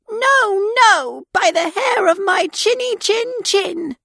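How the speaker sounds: high defiant piglet; little pig voice. A narrator's reading. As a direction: refuse in a high squeaky voice. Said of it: "The pig answered".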